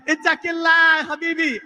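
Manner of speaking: high, loud mock outburst; exasperated guard. Security guard scolds the stubborn customer, exasperated. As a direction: imitate a guard at his wits' end. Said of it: "started getting a little mad, a little frustrated".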